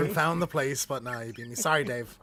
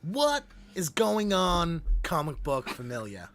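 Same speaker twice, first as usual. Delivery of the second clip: comic deal voice; much slower than usual. Acted. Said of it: "was that comic deal?".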